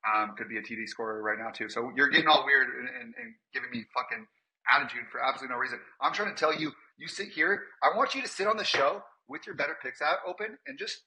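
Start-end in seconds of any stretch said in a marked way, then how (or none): 1.7-11.0 worked-up, higher pitched rant; exasperated rant. Acted. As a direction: vent at them in a rising huff.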